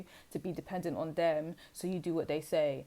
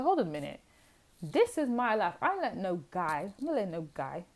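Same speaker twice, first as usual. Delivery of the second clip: defiant. Acted. Voicing the listener refusing a man's control, defiant. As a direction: put your foot down, play-acted.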